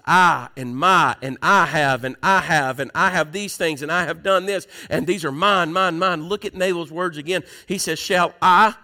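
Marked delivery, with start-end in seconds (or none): 0.1-6.3 "I", "my" and "mine" hammered out in a list; piling up "I have" and "mine" with emphasis; stress on I, MY, MINE. Retold or imitated. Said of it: "All in that scripture that Jesus gave, it was". 8.0-8.7 indignant, punching every "my" and "I"; self-important outrage over his possessions; prideful. Acted. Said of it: "isn't that a prideful thing".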